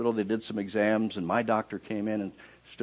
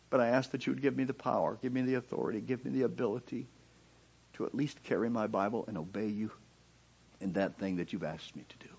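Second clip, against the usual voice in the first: softer and softer, fading to a whisper; hushed prayer; 3 semitones higher, 6 dB quieter than usual. Retold or imitated. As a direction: plead gently, trailing into a whisper. Quiet prayer of surrender.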